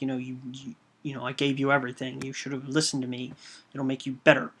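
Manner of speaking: retold fury. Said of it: "Bishop is furious with him".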